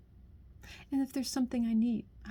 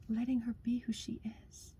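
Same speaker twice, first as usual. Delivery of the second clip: soft whispered echo; 6 dB quieter than usual. Real, not acted. Echoing to the listener what a woman needs, in a soft whisper. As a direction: repeat it under the breath, much softer. Softly echoes her own line.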